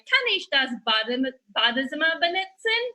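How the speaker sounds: exaggerated German, last word drawn out; hammed-up German, ending in a stretched cry; German spoken performatively. Traveler startling people in Switzerland, hammed-up German. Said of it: "when I was like".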